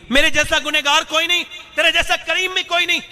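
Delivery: very high, pleading confession; remorseful cry. Retold or imitated. Sinner admits his guilt to God, high pleading cry. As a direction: lift the voice in repentance.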